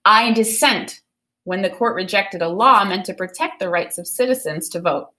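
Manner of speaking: put-on clear, expressive reading of a children's book to the class; storybook read-aloud. Teacher reading a Ruth Bader Ginsburg picture book to students, expressive read-aloud. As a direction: read it like story time for kids.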